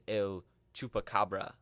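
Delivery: El Chupacabra in a hammed-up Spanish accent. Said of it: "You didn't like my Spanish accent there?".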